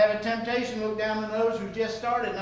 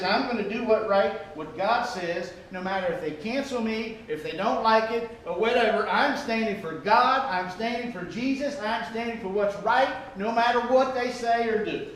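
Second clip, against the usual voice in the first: courageous resolve; 3 semitones higher than usual. Acted. Believer standing firm against being cancelled, with resolute conviction. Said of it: "A courageous attitude that says".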